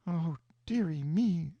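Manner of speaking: put-on slow, lightly fluttering old aunt; dismayed old woman. A narrator's reading. Aunt dismayed by the change, lightly fretful. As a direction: sigh it out in mild distress. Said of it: "aunt dismayed".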